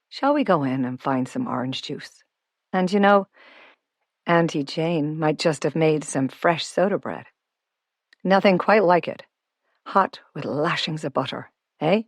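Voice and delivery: hospitable man offering treats, lightly voiced; friendly self-made homeowner. Noel inviting young Olivia in for soda bread, lightly voiced and genial. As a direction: coax a little guest along as genial Noel. Noel's dialogue in narration.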